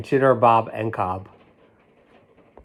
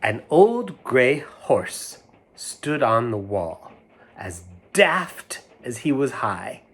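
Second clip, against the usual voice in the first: rhyme reading; 2 semitones higher, slower than usual. Acted. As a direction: draw it out, let it float away. Reads rhyme aloud.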